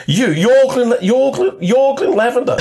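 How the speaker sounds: a fan losing it over his name; freaking out. Retold or imitated. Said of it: "she's just freaking out".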